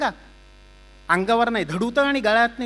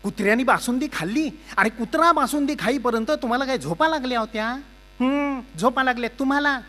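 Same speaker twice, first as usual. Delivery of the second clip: loud, higher nagging rant; scolding wife; 6 semitones higher, 4 dB louder than usual. Acted. Wife scolding Chougule over the spoiled dessert, loud nagging rant. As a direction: tear into the husband.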